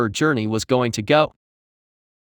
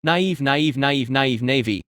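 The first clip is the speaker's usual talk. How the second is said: screamed; slower than usual. A narrator's reading. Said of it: "the creature screamed".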